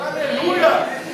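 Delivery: loud, drawn-out hallelujah; joyful shout. Real, not acted. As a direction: cry it out in praise. Preacher exclaims in worship.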